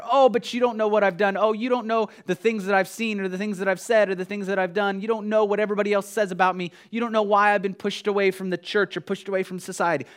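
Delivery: objecting listener pleading that nobody understands him; voicing a hurt outcast. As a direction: speak as the rejected one, defensive and pleading. Imagined outcast protesting to preacher.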